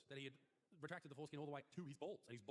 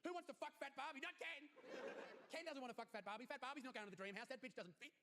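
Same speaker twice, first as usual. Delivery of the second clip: mock outrage; 10 semitones higher than usual. Ranting about Fat Barbie.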